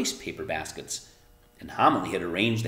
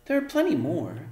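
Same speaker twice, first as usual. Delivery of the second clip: Arrietty; 8 semitones higher than usual. A narrator's reading. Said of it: "said Arrietty".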